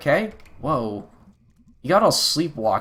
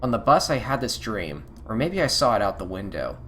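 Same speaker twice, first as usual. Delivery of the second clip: quiet dream monologue; 4 dB quieter than usual. Acted. May recalling a dream on the bus home, subdued. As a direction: read it like a lonely dream on a bus.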